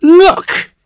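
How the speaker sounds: put-on very high, loud quavering old voice. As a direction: quaver like an ancient man. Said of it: "he quavered".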